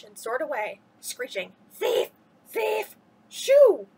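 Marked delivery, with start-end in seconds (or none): 1.7-3.9 high, loud shout; boy yelling at thieving birds. A narrator's reading. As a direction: shoo the birds away. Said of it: "shouted Hugh Thomas".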